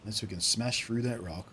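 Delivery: light Australian miner voice; lightly put-on Australian accent. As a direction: grumble in a mild Australian accent. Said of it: "they write these guys with Australian accents".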